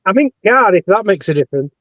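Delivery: muffled, echoey mic sound; like talking from underwater. Real, not acted. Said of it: "sounding a bit echoey and underwater-like".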